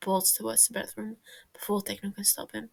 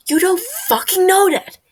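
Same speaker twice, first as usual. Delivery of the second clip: high, loud, desperate shout; panicked yell; 9 semitones higher, 14 dB louder than usual. Acted. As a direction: scream it out in panic. Tommy panicking, yelling at them.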